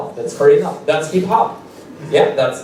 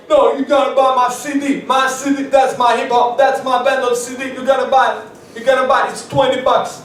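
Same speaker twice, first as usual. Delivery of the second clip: higher, insistent sales pitch voice; pushy rapper hustler; 7 semitones higher than usual. Retold or imitated. Rapper pressures comic to buy his CD, high mock voice. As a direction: push the CD on him hard. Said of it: "he was like".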